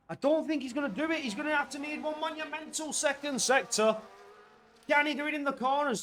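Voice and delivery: high, fast, urgent play-by-play; tense race commentary. Real, not acted. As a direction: race through it as the suspense builds. Commentator builds up the chase.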